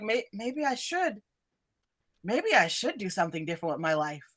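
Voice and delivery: soft, wavering admission of doubt; defeated. Acted. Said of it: "he just looks defeated".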